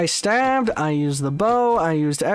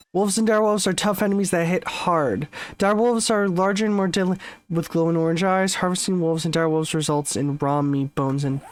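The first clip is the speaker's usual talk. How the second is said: fast, even reading of game info; brisk info read; quick reference read; faster than usual. Real, not acted. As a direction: rattle off the wiki entry quickly. Reads game wiki text aloud.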